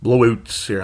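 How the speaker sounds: put-on "Blowouts here" in a light Canadian accent. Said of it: "I'm using a Canadian accent for some reason".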